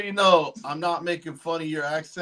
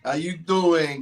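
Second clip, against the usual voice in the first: put-on New York accent; slower than usual. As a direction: toss out a Brooklyn hello. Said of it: "She got that New York accent".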